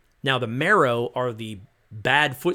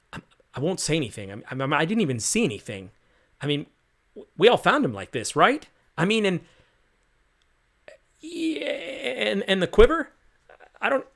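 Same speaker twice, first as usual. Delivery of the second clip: panicked recruit; 6 semitones higher than usual. Acted. Frightened recruit pleading with the soldiers, high panicked stammer. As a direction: babble in fear, voice cracking upward.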